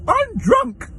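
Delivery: put-on very high-pitched drunken squeal; drunk passenger. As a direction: imitate a drunk woman in a squeaky falsetto. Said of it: "I know you're drunk".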